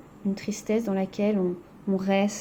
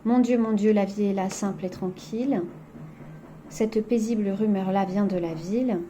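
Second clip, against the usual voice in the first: poem reading. Acted. Reads the poem aloud.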